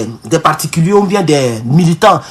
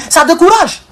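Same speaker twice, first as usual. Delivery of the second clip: laugh; 8 semitones higher than usual. Real, not acted. Laughing at absurd customs cost.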